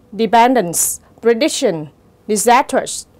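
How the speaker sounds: "dependence, prediction, disastrous", each stressed on syllable two; de-PEN-dence, pre-DIC-tion, di-SAS-trous; second-syllable stress. Shown as a demonstration. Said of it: "nó có dấu nhấn ở âm tiết thứ hai". (nhấn âm tiết thứ hai của "dependence, prediction, disastrous")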